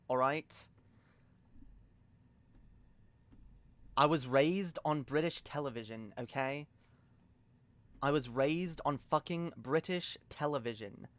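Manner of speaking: casual, sweary British accent; offhand British talk. Shown as a demonstration. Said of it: "look, I'm British".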